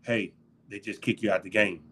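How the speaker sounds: quiet, calm imitation of the coach. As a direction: lean in and say it low and calm. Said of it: "he just leaned over really calm".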